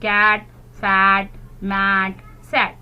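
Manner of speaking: slow, loud rhyming words; slow rhyme read. Shown as a demonstration. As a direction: stress the shared ending. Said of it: "ये सब rhyming word है".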